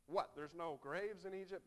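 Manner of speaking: sarcastic. Retold or imitated. Preacher echoing the Israelites' jab, mock disbelief. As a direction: scoff at the idea. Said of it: "there's sarcasm".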